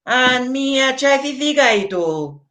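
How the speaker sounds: put-on evenly pitched comic Nigerian accent. Comedian telling of going to Nigeria, put-on Nigerian accent. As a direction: put on Nigerian Pidgin with a tagged-on "oh". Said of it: "I'm not sure if it's Nigerian".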